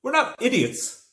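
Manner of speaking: high, slow and loud, offended; indignant. A narrator's reading. Joe to Aisling, slowly and loudly indignant. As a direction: spell it out, insulted. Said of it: "Joe replied".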